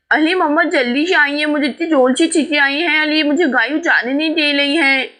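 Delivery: put-on a little girl calling urgently for help; upset calling mum. Child blocked from the toilet.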